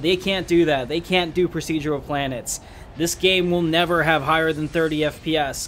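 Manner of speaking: loud, scornful imitation of doubters. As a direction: throw the doubters' words back loudly. Quoting mocking doubters, raised voice.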